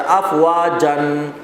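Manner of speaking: افواجن recited slowly with drawn-out vowel and ringing final n; slow Quran-lesson reading of افواجن; Quranic recitation. Shown as a demonstration. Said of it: "آپ پڑھتے ہیں سورہ نصر".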